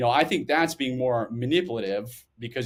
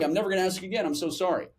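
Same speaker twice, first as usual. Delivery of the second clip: higher-pitched mock backing-down apology; cowed apology; 6 semitones higher, faster than usual. Cowed listener backing off from someone going psycho, hammed-up apology. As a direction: back off in a higher, placating voice.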